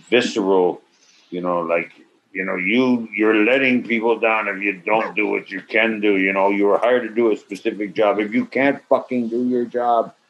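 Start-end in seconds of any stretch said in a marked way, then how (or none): 2.5-10.1 mock director tirade. Director's angry crew speech.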